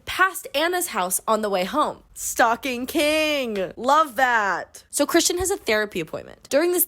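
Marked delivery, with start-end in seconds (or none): 2.2-4.5 sarcastic. Real, not acted. Sarcastic praise.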